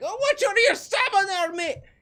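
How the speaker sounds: very high, very loud, shrill, angry Scottish yell. Voicing people in a vehicle who are swearing in Scottish voices. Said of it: "a riot of Scottish swear words".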